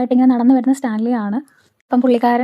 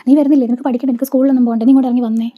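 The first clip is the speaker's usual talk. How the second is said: louder mock scolding of a stubborn child; retold scolding; 3 dB louder than usual. Aunt yelling at the girl to come downstairs, raised mock scolding. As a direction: call her down with a sharp, raised voice.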